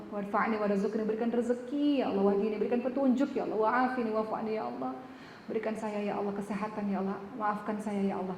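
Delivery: worshipper who understands the words, praying earnestly; earnest prayer. Acted. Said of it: "Yang paham pasti sungguh-sungguh".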